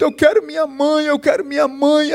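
lightly voiced crying child. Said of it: "tinha uma criança que chorava muito".

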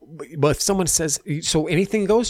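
a hammed-up woman's voice throwing a gotcha question; mock shrill challenge. Mimicking her challenging question.

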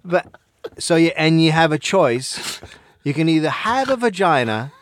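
rough put-on Australian voice; Australian accent that may fall apart; attempted Australian accent. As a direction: imitate an Australian podcast host. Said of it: "try and do an Australian accent".

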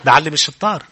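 proverb said through a laugh; laughing at the crowd's laugh. Real, not acted. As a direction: repeat it chuckling. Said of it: "ليش عم تضحكوا؟".

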